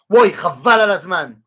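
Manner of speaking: "ouais, Chaval al azman" said bright and pleased, as if it's great; delighted intonation. Shown as a demonstration. Teacher shows the phrase meaning great, said with delight. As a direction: make "Chaval al azman" sound like wonderful news. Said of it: "ça veut dire, c'est génial".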